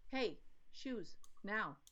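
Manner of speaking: short firm command. Shown as a demonstration. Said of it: "don't have to say it in a mean, barky voice".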